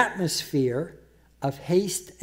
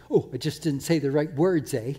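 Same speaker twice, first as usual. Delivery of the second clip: mock excuse; 2 semitones lower than usual. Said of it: "they excuse that and say".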